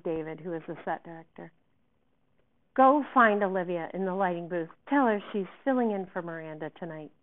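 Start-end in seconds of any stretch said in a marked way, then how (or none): 2.7-7.1 louder, insistent command; angry order. Acted. Director sending David for the understudy, angry. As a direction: fire off instructions in a temper.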